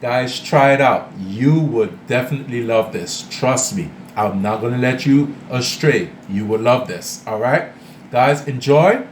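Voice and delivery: talking with mouth full. Real, not acted. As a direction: speak through a mouthful of food. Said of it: "I'm still eating with my mouth full".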